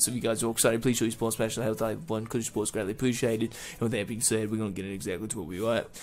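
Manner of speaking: put-on Australian accent; loosely attempted Australian accent. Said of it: "saying the rest of the episode in Australian accent".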